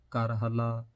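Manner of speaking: ਕਰ ਹਲਾ with a single, undoubled ਲ; correct pronunciation. Shown as a demonstration. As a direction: say ਕਰ ਹਲਾ loudly with a light single l. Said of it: "ਏਦਾਂ ਕਰਕੇ".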